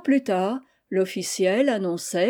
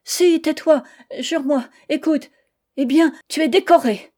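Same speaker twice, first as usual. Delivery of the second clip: high, loud cry; wife shouting the news to end the argument; shouting in his face; 6 semitones higher, 6 dB louder than usual. Acted. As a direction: blurt it straight at him. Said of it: "elle lui cria dans la figure".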